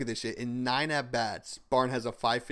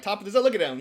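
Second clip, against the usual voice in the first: excited umpire; 9 semitones higher, 7 dB louder, much faster than usual. Retold or imitated. Umpire bragging about strike call.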